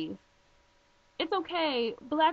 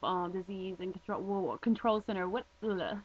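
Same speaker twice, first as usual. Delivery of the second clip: real stumble over the words; tongue-tied; 2 semitones lower than usual. Real, not acted. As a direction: trip over the name, correct yourself, then give up with an ugh. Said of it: "I'm tongue-tied".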